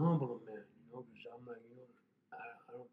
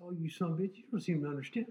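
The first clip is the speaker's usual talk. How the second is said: raised bitter curse; angry curse; 4 semitones higher, 6 dB louder than usual. Retold or imitated. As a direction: swear at him, heated. Cursing detective after hang-up.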